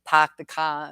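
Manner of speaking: mimicked Boston accent with dropped r. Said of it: "out in Boston".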